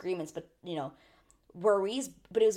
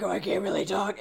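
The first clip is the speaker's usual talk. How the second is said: lost voice. Retold or imitated. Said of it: "He lost his voice".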